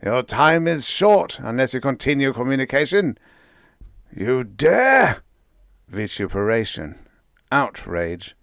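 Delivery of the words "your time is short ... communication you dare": menacing cosmic voice. A narrator's reading. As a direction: pronounce doom on tiny creatures. Voice warns.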